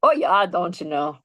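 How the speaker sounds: light North Dakota accent, played for laughs. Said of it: "She brought it back".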